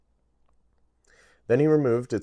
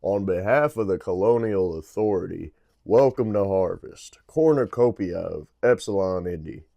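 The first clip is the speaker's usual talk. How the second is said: enthusiastic computer announcer; 6 dB louder than usual. Acted. Ship computer greeting passengers as an eager, louder announcer. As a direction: sell the planet like a cheerful PA voice. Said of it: "I need to redo that".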